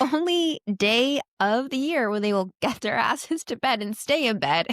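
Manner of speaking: talking through laughter; real laughs breaking into the words; laughing. Real, not acted. Parent joking about kids' one obedient night, laughing.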